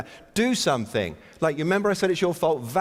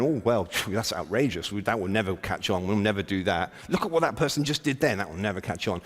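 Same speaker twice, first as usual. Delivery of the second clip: lower, softer mock-whiny liberal grumble; 5 semitones lower, 3 dB quieter than usual. Speaker mocks himself as a typical whiny liberal, low grumbling mockery. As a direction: ham up the self-righteous liberal tutting. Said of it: "I'm a typical whiny liberal".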